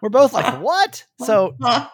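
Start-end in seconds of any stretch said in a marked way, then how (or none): 0.6-1.0 high, short incredulous yelp; retold disbelief. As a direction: replay the shock in one high word. Both react to retold news.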